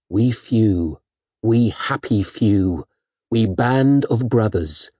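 slow, stirring Shakespeare delivery; rally them, slowly and grandly; dramatic recitation. Acted.

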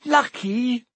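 high, loud incredulous shriek. A narrator's reading. Hermione shrieking at Ron's remark, loud disbelief. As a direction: throw the word back in disbelief. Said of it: "shrieked Hermione".

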